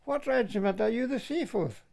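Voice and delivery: mild call to the soldiers in the back; retold shout. Calling to soldiers in a passing army truck, mild shout. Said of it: "I shouted to the boys in the back".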